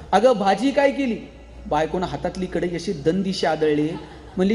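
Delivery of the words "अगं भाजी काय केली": mock shout. Husband yelling into his deaf wife's ear, mild mock shout. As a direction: shout अगं, भाजी काय केली? as if into a deaf ear. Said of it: "जोरात कानात ओरडला".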